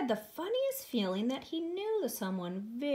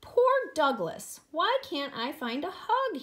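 self-pitying; 4 semitones higher, 4 dB louder than usual. Acted. Douglas pities himself in story.

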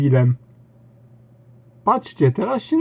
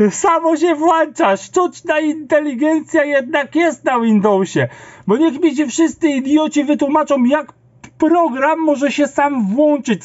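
high, raised ranting voice; exasperated rant; 7 semitones higher than usual. Real, not acted. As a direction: rant at the idiots, pitched up. Ranting at Windows.

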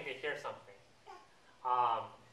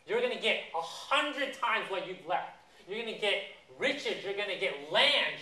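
acted-out eager promise, pitched up; excited promise; 3 semitones higher than usual. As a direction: build a list of rewards, stretching key words. Voices Jesus promising Peter rewards.

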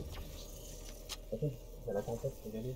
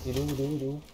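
urgent shout; 2 semitones higher, 10 dB louder, much faster than usual. Real, not acted. Searching for enemy urgently.

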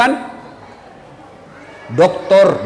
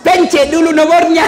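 raised, high-pitched exasperated instruction; exasperated correction; 8 semitones higher, 4 dB louder than usual. Acted. Booth helper telling Haji to dial first, exasperated shout. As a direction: call it out in exasperation.

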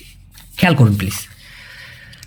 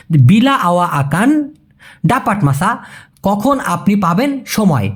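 slow teaching demo; slower than usual. Shown as a demonstration. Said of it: "সেই ক্ষেত্রে আকান আসবে".

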